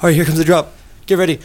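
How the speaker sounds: high excited DJ announcement; hype DJ call. Retold or imitated. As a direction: pump up the crowd before the drop. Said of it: "and he's like".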